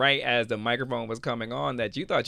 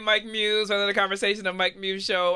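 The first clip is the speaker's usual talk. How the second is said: loud, high host opener; show host intro; 10 semitones higher, 6 dB louder than usual. Acted.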